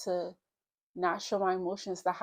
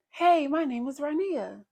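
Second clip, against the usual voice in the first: forced cheer; 6 dB louder than usual. Retold or imitated. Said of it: "happy face on".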